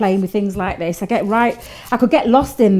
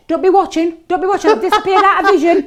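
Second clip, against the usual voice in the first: laughing; 7 semitones higher than usual. Real, not acted. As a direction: laugh through it, embarrassed. Caught bending over on camera.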